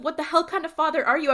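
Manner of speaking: mild mock outburst at his father; a touch of a son finally snapping; retold snap. Dean finally snapping at his silent dad, mildly hammed-up. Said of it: "when he finally snaps".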